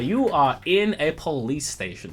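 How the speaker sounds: a hint of a Southern colonel accent; Southern gentleman accent. GM voicing Jedediah to the party in a Southern accent. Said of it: "Literally Foghorn Leghorn".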